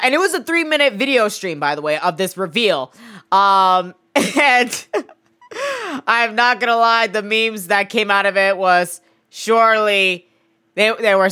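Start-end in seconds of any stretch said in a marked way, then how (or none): 5.5-6.0 short high giggle. Real, not acted. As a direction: giggle helplessly. Laughs at the memes.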